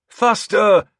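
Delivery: sharp high loud yell; shouted command. A narrator's reading. Leader closing on the enemy, loud command. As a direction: whip them on. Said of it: "I shouted".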